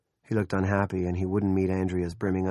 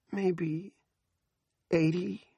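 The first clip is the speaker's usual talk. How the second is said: tearful plea; 10 semitones higher, much slower than usual. Acted. Andrea tearful, pleading.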